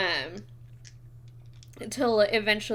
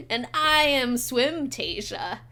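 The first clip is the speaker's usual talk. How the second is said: lilting fish lady; 3 semitones higher, 4 dB louder, slower than usual. Acted. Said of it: "the other one says".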